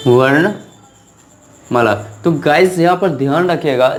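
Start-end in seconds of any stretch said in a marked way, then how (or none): 0.1-1.9 वर्णमाला stretched out very slowly, each syllable held; drawn-out repeat. Shown as a demonstration. Teacher repeats the Hindi word वर्णमाला slowly. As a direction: draw out वर्णमाला for the class. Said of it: "जिसको हिंदी में बोला जाता है वर्णमाला".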